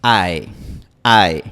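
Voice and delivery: ae con final menos frontal y menos alto; diptongo inglés ae. Shown as a demonstration. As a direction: terminar ae en una E abierta. (ae inglés, final abierto)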